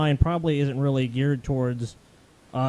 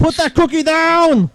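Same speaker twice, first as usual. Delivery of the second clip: scolding shout; 8 dB louder, slower than usual. Pretend. Old lady scolding caller.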